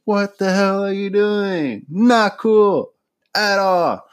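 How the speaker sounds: mock scolding Leslie for inviting Wendy; mock scolding Tom. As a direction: scold a coworker in hammed-up disbelief.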